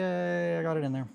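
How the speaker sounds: loud, high happy yay; excited cheer. Real, not acted. Builder cheering as the pin goes in. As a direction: celebrate the small win.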